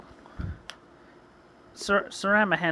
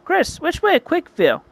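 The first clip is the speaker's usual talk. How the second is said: Sarama; 12 semitones higher, 4 dB louder than usual. A narrator's reading. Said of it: "Sarama says".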